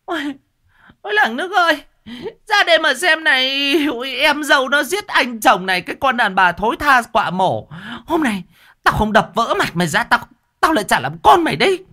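very high, loud wailing to the whole village; wailing shriek. A narrator's reading. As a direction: howl for the neighbours, then threaten. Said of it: "bà Loan rú lên".

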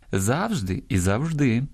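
завжди first stressed on ЗАВ-, then on -ЖДИ; double stress. Shown as a demonstration. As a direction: slowly show both stresses of завжди. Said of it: "мають подвійний наголос". (два наголоси: завжди на першому, потім на другому складі)

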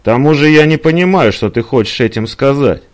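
mildly exasperated woman; quarrelling. Acted. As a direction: throw it back at him.

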